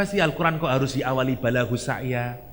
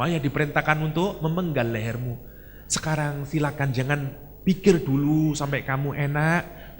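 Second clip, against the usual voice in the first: soft, hushed loving father; a father softly breaking hard news; tender father; 4 dB quieter than usual. Acted. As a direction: speak to your son gently, with love. Father speaks tenderly to son.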